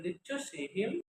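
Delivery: "Did you see him?" climbing sharply on "him"; question intonation. Shown as a demonstration. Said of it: "Intonation refers to the variation in pitch".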